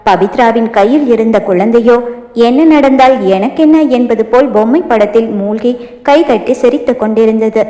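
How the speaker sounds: usual speaking voice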